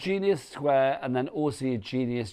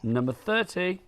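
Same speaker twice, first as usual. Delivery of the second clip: calling out bingo numbers, pitched up; bingo caller; 6 semitones higher than usual. Acted. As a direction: sing out the number like a bingo hall. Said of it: "I used to be a bingo caller".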